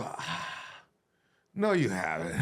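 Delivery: low, laughing no, you haven't; amused low put-down; laughing retort. Retold or imitated. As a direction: deny it through a laugh. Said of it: "and I go".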